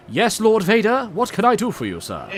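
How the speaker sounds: high-pitched, deferential British officer; Imperial officer. Acted. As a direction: answer your dark master as an eager underling. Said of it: "Star Wars Imperial Officer".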